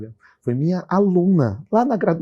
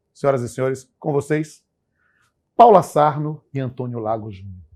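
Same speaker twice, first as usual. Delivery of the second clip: grand entrance announcement; 4 dB louder than usual. Acted. Host announcing guests.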